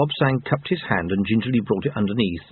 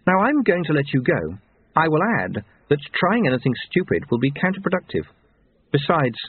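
measured warning, a little higher; stern, self-possessed woman; 3 semitones higher than usual. Acted. Woman releasing her captive with a warning, stern. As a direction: warn him with cool authority. Voices Susan warning Lobsang.

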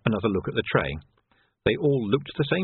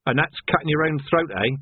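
jovial; 4 semitones higher than usual. Acted. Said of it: "said Vimes jovially".

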